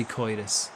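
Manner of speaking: slow "coitus" with an oy for Curtis; cartoon-style oy in coitus; Goofy's pronunciation. Shown as a demonstration. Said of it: "He'd say coitus".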